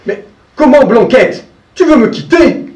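put-on an old man wounded by his goat; hurt old farmer.

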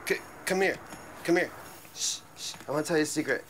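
put-on whispered drunken confession. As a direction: lean in and breathe it like a secret. Drunk whispering secret to cop.

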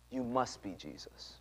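slow, whispered retold conclusion; awed. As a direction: whisper it with quiet conviction.

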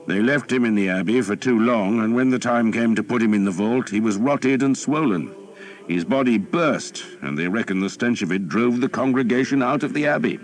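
jovial lord regaling his captain; earl telling a tale. A narrator's reading. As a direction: spin the grisly story as the lively Earl. Earl tells a gory anecdote.

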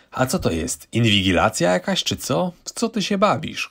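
husband snapping, pitch jumping up at the end; angry shouting. Acted. Husband shouting at his wife over the bank account, angry. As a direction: lash out at her for checking the account. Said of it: "Krzyczał".

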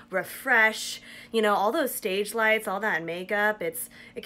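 talking through stiff wet mask; wearing a sheet face mask. Real, not acted. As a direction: cheeks held still by mask. Seen 2: Printed sheet mask covers face throughout; lips show through mouth opening.

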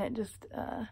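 lips held apart by brush; speaking around dental brush; brush at front teeth. Real, not acted. Seen 0: Holds pink interdental brush against braced front teeth while speaking.

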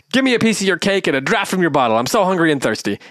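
old gray man begging Dullhead for cake, in a groping, mock accent; forgotten accent. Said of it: "don't remember the accent at all".

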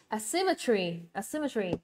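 "asymmetry" stressed on SYM, said twice; second-syllable stress. Shown as a demonstration. Teacher models the word for students, second-syllable stress. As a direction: punch SYM in "asymmetry", then fall away. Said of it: "âm số hai ha".

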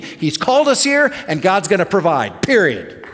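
emphatic preacher's declaration of faith; retold indignant rebuke, punching key words. Pastor retelling his defiant answer to the agent, indignant. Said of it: "out of my belly came this, like, this indignant".

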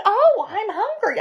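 high, loud, slow moan of hunger; Amy bounding down for breakfast; starving Amy. Acted. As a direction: stretch out the hunger.

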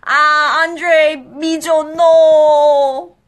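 high, loud cry of surprise and delight; excited cry. Real, not acted. Host crying out as the winner is revealed. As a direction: shout the names in shocked delight.

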